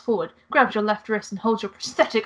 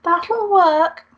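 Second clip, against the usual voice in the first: higher, louder mock French; French accent; 10 semitones higher, 6 dB louder than usual. Angel agrees to meet the player, in mock French. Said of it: "the accents dipping in and out".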